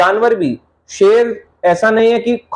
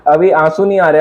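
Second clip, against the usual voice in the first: laughing; 4 semitones lower than usual. Real, not acted. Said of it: "मुझे तो हंसी आ रही है".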